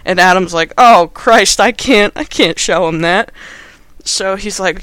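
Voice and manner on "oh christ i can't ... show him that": panicked. Retold or imitated. Adam panics about the photo.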